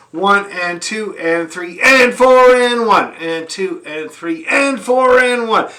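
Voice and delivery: slow rhythmic count. Shown as a demonstration. Fiddle teacher counting the rhythm slowly for the class. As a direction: count in the groove. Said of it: "up bows happen on the and".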